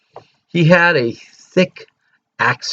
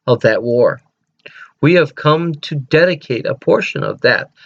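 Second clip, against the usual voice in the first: reciting the Gettysburg Address. Acted. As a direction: declaim it like a president at a memorial. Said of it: "Let me read it to you".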